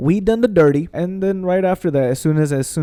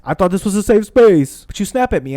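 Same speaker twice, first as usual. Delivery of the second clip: retold protest; 5 semitones higher, 5 dB louder than usual. Telling partner they snapped, retold indignation. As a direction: stretch out the aggrieved complaint.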